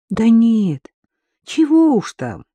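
high, drawn-out dismissal of the apology; forgiving. A narrator's reading. Future father-in-law brushing off an apology, forgivingly. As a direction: wave it away indulgently. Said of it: "простительно махнул рукой Георгий Петрович".

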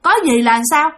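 mildly irritated retort; grumpy scolding. Acted. Woken hotel man rebuffs a guest's question, grumpily scolding. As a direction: scold with testy, challenging questions. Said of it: "Cái ổng mới chửi bạn".

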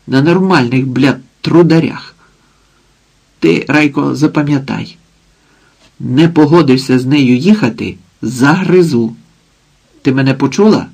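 mildly acted coarse mother threatening; lightly voiced drunk mother. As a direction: threaten her daughter with a mocking snarl. Mother scolds and threatens daughter.

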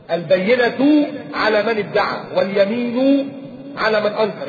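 البينة على من ادعى واليمين على من أنكر drawn out slowly, word by word; slow recitation. Shown as a demonstration. Slow, weighty recitation for the audience. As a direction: recite the rule slowly so it sinks in. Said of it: "يعني إيه؟".

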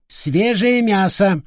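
high, slow drawn-out parrot squawk; parrot cry. Acted. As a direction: stretch it out like a hungry bird. Parrot screeching at visitor. (протяжный птичий крик)

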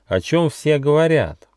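high-pitched, inquiring kangaroo; polite question. A narrator's reading. Kangaroo asks the gnome about the rumour, polite. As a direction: ask politely, voice lifted high. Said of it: "вежливо спросила кенгуру Ругена".

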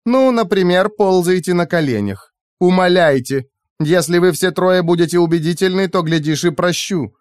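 high-pitched mocking instructions; toying villainess. A narrator's reading. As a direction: dangle forgiveness in a high voice. AI toys with grovelling captives.

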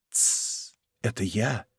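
hushing whisper, very soft. A narrator's reading. Aramis silencing the woken Porthos, whispering. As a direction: shush him and whisper low. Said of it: "прошептал Арамис".

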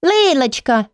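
put-on high sweet child voice; angelic little voice. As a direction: call like a sweet little girl. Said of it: "ангельский голосочек".

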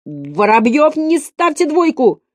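high, slow schoolkid plea, lightly voiced; lightly acted whining appeal; pleading pupil. A narrator's reading. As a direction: beg the teacher, pitch climbing.

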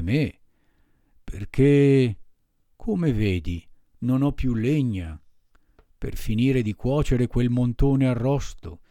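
big gruff puppeteer melting with mock pity; gruff puppet master, self-pitying. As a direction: drag it out like a teary ogre. Mangiafuoco voice held.

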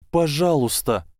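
high, breaking plea; a last pleading whisper of a word. Acted. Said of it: "срывающимся голосом попросила".

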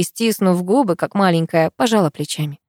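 ordinary delivery

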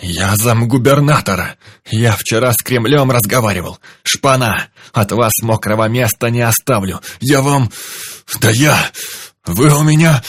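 loud sputtering rage, choking on words; sputtering foiled villain. Acted. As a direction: splutter in helpless fury. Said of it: "Задыхался в бессильной злобе".

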